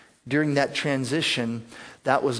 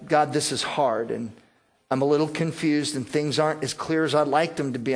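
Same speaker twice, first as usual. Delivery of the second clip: honest, calm prayer. Retold or imitated. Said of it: "this is our attitude".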